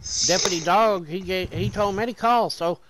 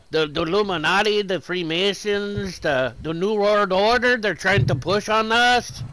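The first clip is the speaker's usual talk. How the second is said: ranting conspiracy theorist; 4 semitones higher, 4 dB louder than usual. Retold or imitated. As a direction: lightly imitate a worked-up conspiracy guy. Retold conspiracy rant of California man.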